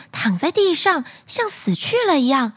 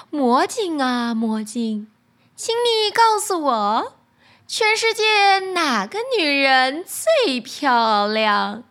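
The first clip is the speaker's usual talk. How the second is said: queen's voice; slower than usual. Acted. Queen asks the magic mirror.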